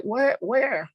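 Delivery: a jolt of shock from the kitchen; mother cries out in surprise; startled mother. Retold or imitated. Mom hears the news.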